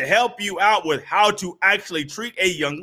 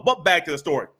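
ordinary delivery

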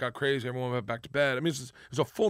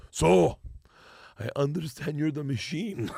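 imitated Russian cop; slower than usual. Cop pulling the student up to his face, lightly imitated confrontation. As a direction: play the cop, hit the first word hard, then ease off. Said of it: "and he goes".

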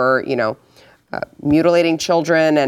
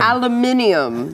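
higher mock-British pronunciation, rising at the end; fancy British accent; 6 semitones higher than usual. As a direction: echo "Aluminium" with British airs. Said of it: "That did sound really fancy".

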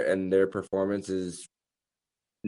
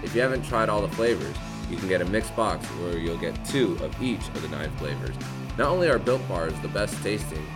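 upbeat sponsor read over music; hard sell ad. Acted. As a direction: sell it like a radio ad. Host reads sponsor ad.

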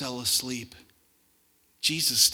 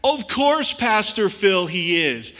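mock congregation answer; 4 semitones higher, 9 dB louder, slower than usual. Congregation voiced answering pastor.

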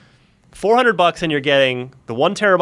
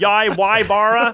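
barista calling orders; 8 semitones higher, 3 dB louder, slower than usual. Retold or imitated. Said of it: "this is a Starbucks in Massachusetts".

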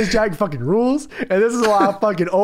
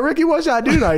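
mock Daniel Bryan; 7 semitones higher than usual. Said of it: "he's like".

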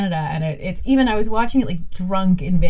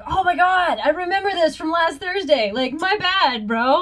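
talking dog; 9 semitones higher than usual. Retold or imitated. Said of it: "your dog was like".

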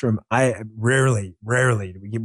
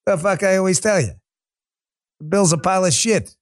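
brash Queens New York accent, higher; 4 semitones higher than usual. Shown as a demonstration. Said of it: "I'm gonna go back New York style".

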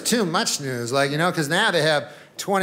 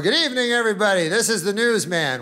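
newsman; 3 semitones higher than usual. Retold or imitated. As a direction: open like a TV anchor. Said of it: "The newsman will come on, he'll go".

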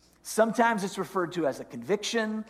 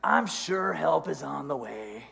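soft, casual tempting voice; devil on the shoulder; 4 dB quieter than usual. Acted. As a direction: quietly talk them out of it. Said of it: "then the second voice chimes in".

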